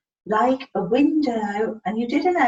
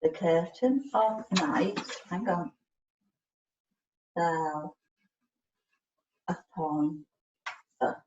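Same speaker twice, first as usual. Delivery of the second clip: slow word-by-word reading; 6 semitones lower, 6 dB quieter than usual. Shown as a demonstration. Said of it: "I'm gonna get him to read that one".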